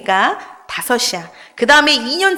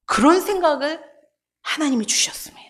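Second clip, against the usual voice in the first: whisper; 2 semitones higher, 3 dB quieter than usual. Real, not acted. Revealing God's insight.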